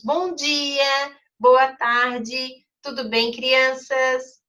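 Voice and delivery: teacher showing an exclamation; cheerful greeting. Shown as a demonstration. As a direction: greet the children brightly. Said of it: "É igual como a gente diz".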